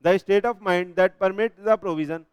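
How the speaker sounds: very slow, word by word definition read; slow dictation. Shown as a demonstration. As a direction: dictate it slowly for notes. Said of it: "teacher reads definition slowly".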